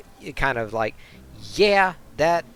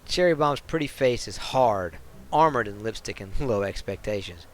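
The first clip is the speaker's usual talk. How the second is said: lively storybook read of the bar scene; story narration. A narrator's reading. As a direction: narrate it like a sly novel. Reads game story text.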